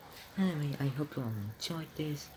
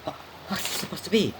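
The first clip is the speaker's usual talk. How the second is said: muffled behind a hand; hand over mouth; 5 semitones higher, 7 dB louder than usual. Real, not acted. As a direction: speak through your palm. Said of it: "put your hand over your mouth like this".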